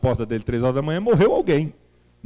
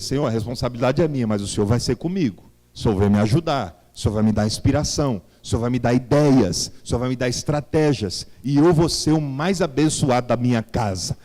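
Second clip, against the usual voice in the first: rising, louder preacher's proclamation; preaching declaration; 2 semitones lower, 3 dB louder than usual. Acted. Preacher leads the church in declaring faith, fervently. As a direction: build the declaration like a rallying prayer.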